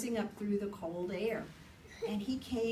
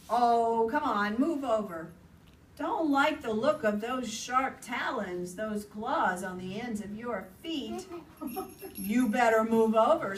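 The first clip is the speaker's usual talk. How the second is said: bickering animals; 4 dB louder than usual. Acted. Owl and rabbit quarrel.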